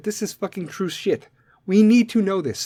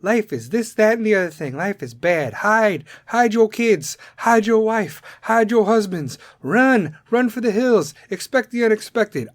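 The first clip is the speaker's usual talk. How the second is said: mocking the doom-sayers, raised and urgent; mock panicky society; 4 semitones higher than usual. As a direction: ham up the scared masses. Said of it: "society is sitting there like".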